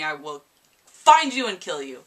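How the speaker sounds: half-joking threat, sudden loud kill you; playful menace at spoilers; mock threat. Vlogger jokingly threatens viewers who spoil the book, mock menace.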